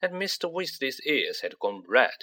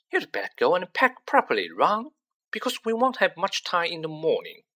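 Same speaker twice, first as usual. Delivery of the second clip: higher, raised mother's voice; lightly raised motherly call; calling down the table; 6 semitones higher than usual. Acted. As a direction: call across the dinner table. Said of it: "called down the table".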